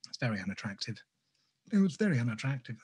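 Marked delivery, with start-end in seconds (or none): 1.7-2.8 a hint of a disapproving mother, brisk. The artist catching his mother's tone in his own voice. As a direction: tut it out the way mum would. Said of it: "I said that like my mother".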